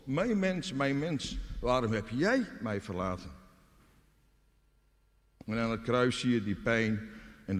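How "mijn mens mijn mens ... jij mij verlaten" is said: high opening cry, settling down; God's anguished cry. Acted. God calls to forsaken-hearted mankind, a wounded cry. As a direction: cry out in hurt, starting high. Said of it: "klinkt de schreeuw van God".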